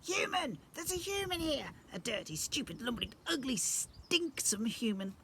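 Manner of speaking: very high squealing disgust, slowing at the end; panicked goblin squeal. Acted. Goblin prince panics at the sight of Mum, squealing. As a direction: shriek it out in horror.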